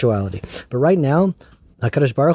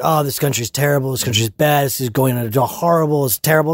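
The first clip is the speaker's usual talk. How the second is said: mocking whine. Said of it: "the right wing is like".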